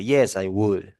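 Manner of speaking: dry, sarcastic agreement. Shown as a demonstration. Teacher explaining why could and would sound rude: sarcastic. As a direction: say yes but mean the opposite. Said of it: "like, sarcastically".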